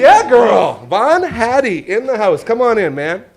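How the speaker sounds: loud, high hype greeting; thrilled high-pitched shout; excited welcome. Real, not acted. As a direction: cheer the guest into the house. Host welcomes guest onstage.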